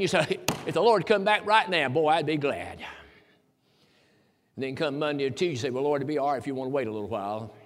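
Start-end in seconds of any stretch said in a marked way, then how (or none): 0.7-2.8 eager. Retold or imitated. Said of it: "such a wonderful meeting". 5.7-7.5 sheepish hedge. Retold or imitated. Backpedalling believer, quick hedge.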